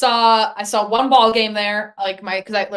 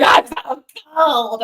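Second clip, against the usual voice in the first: drawn-out whine about the cold; mock complaint; 5 semitones higher, much slower than usual. Complaining to family at sixty degrees, drawn-out mock whine. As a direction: stretch it out, slow and higher.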